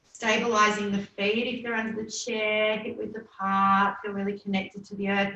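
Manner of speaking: calm yoga nidra guiding voice, unhurried with long pauses; settled, measured relaxation voice; guided meditation. Acted. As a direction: lead them gently into rest, drawing out the breath cues.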